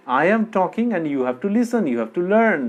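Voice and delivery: slow, imposing mock command; mock bossy lecturer. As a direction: play a preachy teacher laying down the law. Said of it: "সেরকম বলছেন না".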